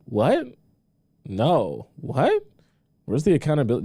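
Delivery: sharp high-pitched What, pitch leaping; stunned outrage at the answer; disbelieving. Real, not acted. Streamer reacting in disbelief.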